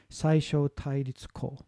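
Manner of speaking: slowly sounding out Saisho Tairitsuko in Japanese; careful Japanese. Shown as a demonstration. Teacher trying the Japanese term for minimal pairs. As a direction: read Saisho Tairitsuko syllable by syllable. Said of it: "if I can say it".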